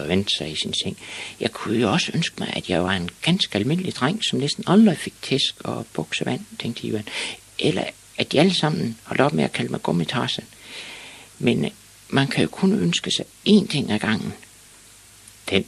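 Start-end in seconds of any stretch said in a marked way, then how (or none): 1.4-6.4 put-on slightly higher pondering boy; boy musing to himself. Ivan in bed tries out another wish, musing. Ivan's thoughts voiced in the story. 7.6-14.3 put-on high-pitched pondering boy; boy musing to himself. Ivan in bed weighs his wishes, musing. Ivan's thoughts voiced in the story.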